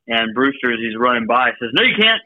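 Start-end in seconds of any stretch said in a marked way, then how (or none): 1.7-2.2 imitated British retort, higher pitch; British accent. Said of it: "in his British accent".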